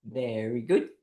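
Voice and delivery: group cheer. Shown as a demonstration. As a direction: chant evenly, then burst into yay. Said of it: "copy me and go".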